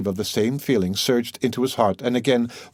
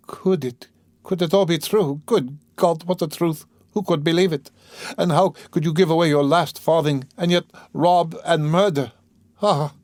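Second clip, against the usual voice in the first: high, disbelieving woman's outburst; sudden anguished cry; 9 semitones higher, 4 dB louder than usual. A narrator's reading. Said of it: "she cried suddenly".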